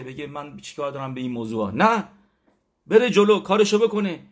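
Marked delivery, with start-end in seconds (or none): 1.7-4.2 much higher, louder preaching push; fervent urging. Real, not acted. Preacher urges the congregation to step forward, loud and fervent. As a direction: drive the point home.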